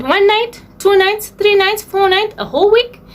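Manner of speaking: high, bright listing of options. Real, not acted. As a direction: list them up high, excited.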